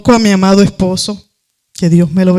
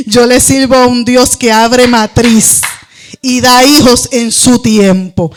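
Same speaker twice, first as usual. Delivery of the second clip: preaching exhortation. Acted. Exhorts listeners on Facebook.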